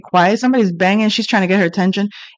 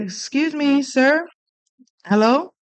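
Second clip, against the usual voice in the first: polite calling out; 6 semitones higher than usual. Retold or imitated.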